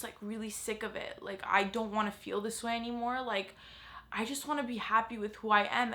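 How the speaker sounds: quiet, tearful voice close to breaking. Real, not acted. Vlogger confessing beauty pressure to her viewers, softly tearful. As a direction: fight back tears as the words come out. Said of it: "I'm getting emotional right now".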